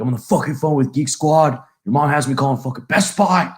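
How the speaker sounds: mock exasperated rant with the swear words punched; mad dad. Retelling dad's tech-support complaint, mock mad. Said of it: "he was really mad".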